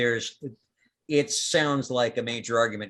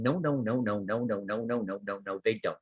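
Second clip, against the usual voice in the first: chorus of plant voices; 2 semitones lower, 6 dB quieter than usual. Acted. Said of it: "a whole lot of other voices going".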